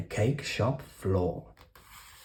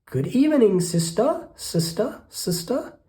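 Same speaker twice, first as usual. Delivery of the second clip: very high calling quack; quacking duck; 10 semitones higher than usual. Acted. Duck calling into the cave, high and quacky. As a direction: sing out each sister higher, duck-like. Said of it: "She quacked".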